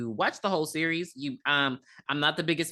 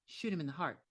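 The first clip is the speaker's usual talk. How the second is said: calm; 10 dB quieter than usual. Retold or imitated. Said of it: "very calmly".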